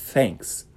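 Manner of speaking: "Thanks" with audible airy th; breathy th. Shown as a demonstration. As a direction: let the breath hiss in "Thanks". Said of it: "Você escuta o soprinho".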